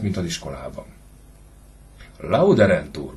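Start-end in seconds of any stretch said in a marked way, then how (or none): 2.2-3.1 louder, scornful mimicry of the boy; father sneeringly repeats his son's answer; mocking echo. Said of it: "bólogatott csúfondárosan Suhajda". (gúnyosan visszhangozva)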